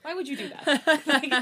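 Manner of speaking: high-pitched mock complaint; exasperated retold protest. Retelling her complaint to her fast-talking boyfriend, high-pitched protest. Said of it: "I'm like".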